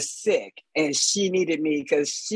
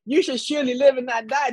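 solemn prophecy; 6 semitones higher than usual. Retold or imitated. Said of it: "my daddy didn't talk like that".

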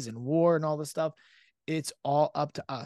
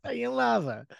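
high put-on mother's voice; mom voice; 9 semitones higher than usual. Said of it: "you did an impression of my mom's voice".

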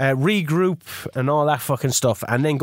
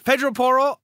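higher, hammed-up Poirot-style name; Poirot-like accent; 8 semitones higher than usual. Host announcing his right back, mock Poirot accent. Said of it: "that was Hercule Poirot".

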